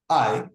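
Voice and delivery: I said as in lie, long eye sound; vowel sound I. Shown as a demonstration. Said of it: "I, as in lie".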